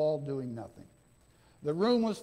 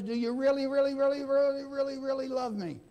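emphatic pleading; 4 semitones higher, faster than usual. Acted. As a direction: plead hard, leaning on every really. Jesus pleading with Peter, emphatic.

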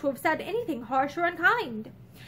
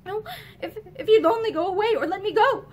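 broken plea; 6 semitones higher, 4 dB louder than usual. A narrator's reading. Pansy begs Ramsden to let her go, halting and broken. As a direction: catch on the first words, then plead. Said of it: "she whispered brokenly".

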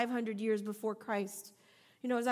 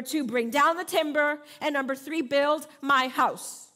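louder, slow repeat; 3 semitones higher, 6 dB louder than usual. Shown as a demonstration. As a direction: build my house said louder and slowly, each word weighted. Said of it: "Let me say it again in case you missed that".

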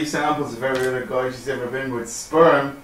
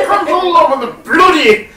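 put-on laughing Irish accent; 12 semitones higher, 7 dB louder than usual.

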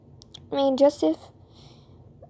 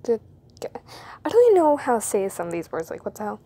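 whisper; 3 semitones lower, 3 dB louder than usual. Acted. Embarrassed aside, voice unvoiced.

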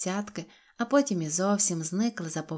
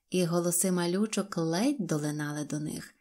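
usual speaking voice

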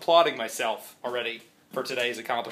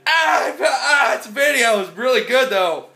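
mock viewer voice; 9 semitones higher, 7 dB louder than usual. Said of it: "You're like".

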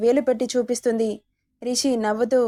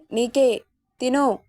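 slow, deliberate repeat of the order; husband repeats the order to eat, slowly and firmly; insisting again, slowly; slower than usual. A narrator's reading. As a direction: drag out తిను as a firm insistence. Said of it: "అన్నాడు మళ్ళీ".

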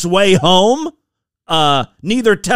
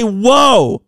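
demonstrated horse command; 4 semitones higher, 3 dB louder than usual. Shown as a demonstration. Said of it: "You're supposed to say".

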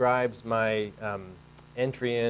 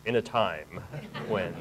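lightly put-on trailer announcer; mock-dramatic trailer voice, with a pause before the last word; movie trailer voice; slower than usual. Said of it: "I'll do the whole thing in a trailer voice".

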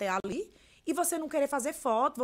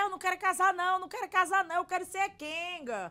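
higher-pitched chanted declaration; catchphrase demo; 5 semitones higher than usual. Shown as a demonstration. Creator recalling how her video came about, high-pitched catchphrase. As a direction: toss it out in a high voice.

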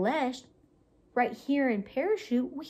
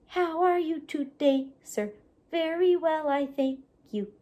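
puppet voice; 4 semitones higher than usual. Shown as a demonstration. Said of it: "they're gonna talk to each other".

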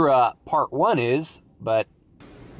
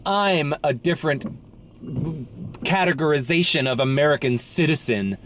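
mock self-important. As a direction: stretch it out as if showing off. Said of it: "They're just signaling to you".

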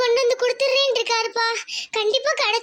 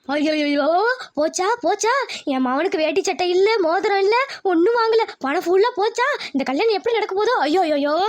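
wailing lament; 3 semitones lower than usual. Acted. Relative laments the lost wedding money.

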